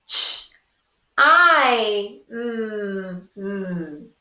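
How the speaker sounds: "Ch-, I, mm, mm" said as separate sounds; sounds chopped apart. Shown as a demonstration. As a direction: segment "chimes" sound by sound. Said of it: "chop all four sounds".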